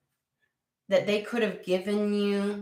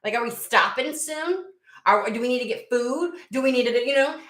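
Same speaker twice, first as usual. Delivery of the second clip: pitched-up mock aggravation; aggravated; 4 semitones higher than usual. Driver demanding directions from a vague passenger, aggravated. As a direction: press for details, mildly exasperated. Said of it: "be getting aggravated as shit".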